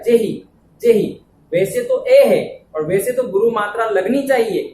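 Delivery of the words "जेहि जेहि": जेहि with a short, light "जे"; short vowel. Shown as a demonstration. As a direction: keep the first vowel of जेहि brief. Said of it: "छोटा हो रहा है".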